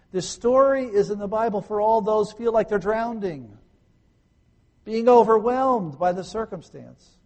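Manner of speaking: preacher's swelling, emphatic appeal; impassioned preaching. Real, not acted. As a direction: raise the voice and ring it out to the distressed. Preacher's rousing appeal to the distressed.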